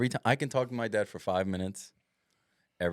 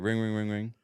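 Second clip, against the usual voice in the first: mock phone ring. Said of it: "I'm gonna do an impression".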